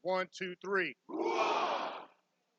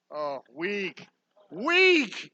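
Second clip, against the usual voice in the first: teasing; 2 semitones higher, much slower than usual. Acted. Taunting the crowd's weak shout.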